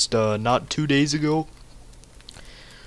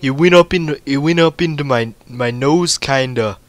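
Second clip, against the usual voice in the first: mouth full of hot food; 3 semitones higher, 5 dB louder than usual. Real, not acted. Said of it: "it's in the back of my throat too".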